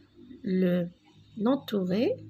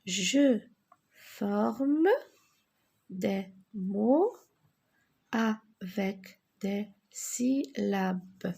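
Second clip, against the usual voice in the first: slow instruction; much slower than usual. Shown as a demonstration. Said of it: "teacher repeats slowly".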